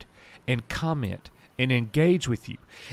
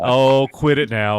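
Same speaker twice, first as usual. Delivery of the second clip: laughing through the words; 6 dB louder than usual. Real, not acted. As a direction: giggle while protesting. Laughing at teasing.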